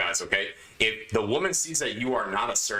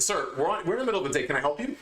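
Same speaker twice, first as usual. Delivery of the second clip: firm no-nonsense confrontation, a bit higher; assertive, firm; 5 semitones higher, faster than usual. Retold or imitated. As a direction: stand your ground without yelling. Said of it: "like, very assertively".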